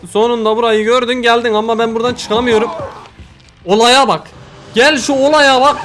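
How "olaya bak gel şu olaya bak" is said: higher, louder, slow disbelief; exasperated outcry. Real, not acted. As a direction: drag it out in exasperation. Exasperated at the game.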